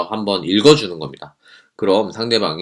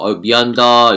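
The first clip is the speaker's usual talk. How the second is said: mock bowing apology; 2 semitones higher, 6 dB louder than usual. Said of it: "허리를 숙이면서".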